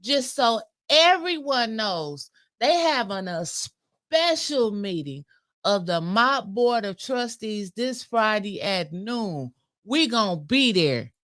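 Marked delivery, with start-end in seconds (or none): 0.0-9.5 slow, deliberate public announcement; reading a post aloud. Real, not acted. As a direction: read out the notice slowly, word by word. Reads out a posted announcement.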